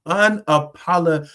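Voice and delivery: tripping over the word "unapolo-" through a laugh; real laugh breaking up "unapolo-"; laughing stumble. Real, not acted. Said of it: "I can't get it out tonight, y'all".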